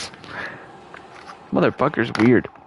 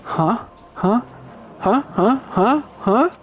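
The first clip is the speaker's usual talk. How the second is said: rising confusion; 9 semitones higher, much slower than usual. Acted. Nagito confused, repeating huh.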